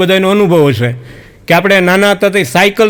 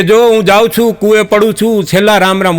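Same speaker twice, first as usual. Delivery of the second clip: a mild retold shout, pitched up, from far across the village; mock calling out; 3 semitones higher than usual. Wife threatening her husband from the village edge, in a mild mock call. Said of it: "પાદરથી બૂમ પાડ્યો".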